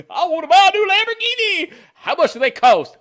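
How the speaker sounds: high, loud eager buyer voice; mock naive buyer. Comic buyer asking a salesman the price, high and loud. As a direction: beg for the car like a clueless customer. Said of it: "going to a Lamborghini lot".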